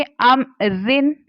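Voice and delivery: रिन with a thin, light r. Shown as a demonstration. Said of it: "रिन पतला करके पढ़ेंगे".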